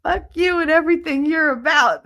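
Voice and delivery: high, hammed-up outburst; imitated anger. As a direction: mimic his indignant rant. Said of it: "He was so mad".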